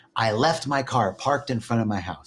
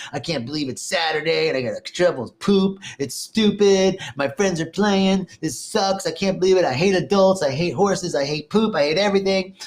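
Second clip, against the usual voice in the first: put-on higher, complaining child's whine; whiny pessimistic kid; 4 semitones higher than usual. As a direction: sulk like a kid stuck shoveling poop. Voicing the pessimistic kid's whining.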